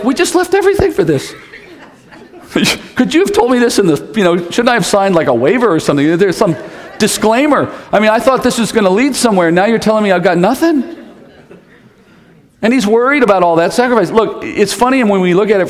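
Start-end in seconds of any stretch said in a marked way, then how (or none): 0.0-10.8 higher, half-laughing mock panic as Peter; panicked Peter. Preacher voicing Peter complaining to Jesus, higher mock panic. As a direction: play Peter's comic dismay, voice pitched up. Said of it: "he has this cry. He's like".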